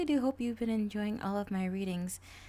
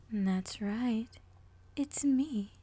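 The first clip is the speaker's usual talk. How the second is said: sly villain reveal; 3 semitones higher, 6 dB louder, much slower than usual. Acted.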